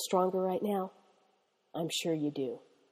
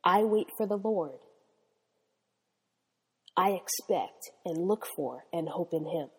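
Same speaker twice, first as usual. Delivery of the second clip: phrase by phrase. Shown as a demonstration. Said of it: "Repeat it after me".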